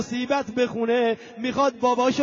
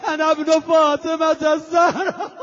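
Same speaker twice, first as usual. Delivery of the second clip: proclaiming shout; 4 semitones higher, 5 dB louder than usual. Retold or imitated. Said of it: "فریاد زد".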